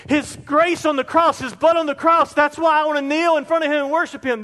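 overflow with wonder at grace; preacher voicing conviction, high and rushing; awed conviction. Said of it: "it's like".

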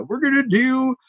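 high, drawn-out fake cheer; half-hearted hammed-up excitement; mock enthusiasm. Mocking a lame party announcement.

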